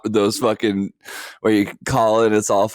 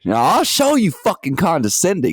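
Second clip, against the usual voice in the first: mock mobster threat, raised pitch; mafia tough guy; 7 semitones higher than usual. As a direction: threaten like a parody gangster. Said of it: "talking like you were in the mafia".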